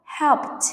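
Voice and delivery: "helped" ending in t; final t sound. Shown as a demonstration. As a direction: say "helped" as one syllable, closing on t. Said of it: "write the correct sound of E D".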